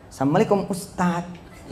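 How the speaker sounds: measured greeting that softens at the end; model greeting demo. Shown as a demonstration. Preacher shows Rizka how to greet Ustadz, composed. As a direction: demonstrate a composed hello, easing off on the title. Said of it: "begini cara ngomongnya".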